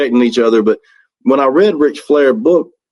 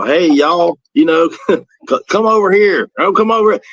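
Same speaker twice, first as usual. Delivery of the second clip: higher, hammed-up Southern "y'all, come over here"; Southern drawl demo; 6 semitones higher than usual. Shown as a demonstration. Teaching French drummer to speak Southern, hammed-up Southern accent. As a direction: play up a Southern accent for a learner. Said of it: "teach him how to speak Southern".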